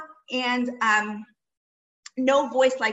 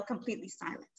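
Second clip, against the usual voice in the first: hushed; 5 semitones lower, 12 dB quieter, faster than usual. Shown as a demonstration. Teacher hushing the class to show the angels' silence. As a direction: fade to near silence on completely silent. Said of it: "even the angels are being completely still".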